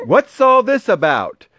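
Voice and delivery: high, astonished crowd cry; excited, high-pitched demand; shouting. A narrator's reading. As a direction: call it out in amazement. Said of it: "the people came shouting".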